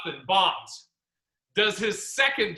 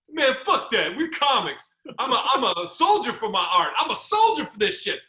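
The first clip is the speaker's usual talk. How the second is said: higher-pitched retold bravado; defiant bravado; 4 semitones higher than usual. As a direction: proclaim it like a proud soldier, higher than usual. Acted quote of defiant comic.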